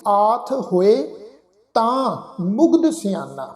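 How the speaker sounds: slow, measured verse reading with held vowels; scripture recitation. Shown as a demonstration. Teacher reciting a Gurbani line to the congregation, slow recitation. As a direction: recite it slowly, phrase by phrase. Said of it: "ਪੰਕਤੀ ਦਾ ਪਾਠ".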